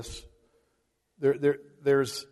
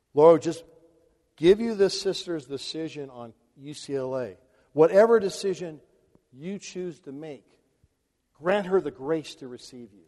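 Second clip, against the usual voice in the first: demo prayer. Shown as a demonstration. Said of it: "Why don't you pray like this?".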